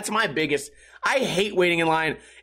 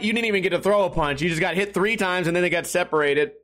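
normal talking voice

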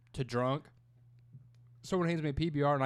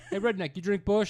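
raised, louder pretend hail; mock call-out; 6 semitones higher, 5 dB louder than usual. Going round asking rednecks about beer, mock call-out. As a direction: hail a stranger, playfully loud.

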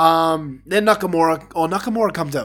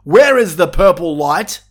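mock outrage; 5 dB louder than usual. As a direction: play a diva yelling for their lighting. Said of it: "and they're like".

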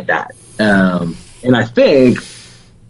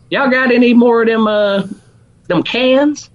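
put-on mom in Alabama accent; 12 semitones higher than usual. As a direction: play your Southern mom with a heavy Alabama accent. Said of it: "in my Alabama accent".

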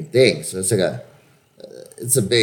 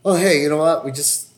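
mock casting director; 3 semitones higher than usual. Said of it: "they could just say".

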